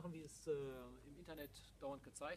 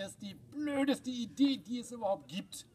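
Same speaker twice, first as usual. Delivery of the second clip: in ice cold water; 7 semitones higher, 14 dB louder than usual. Real, not acted. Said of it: "Das ist sehr kalt".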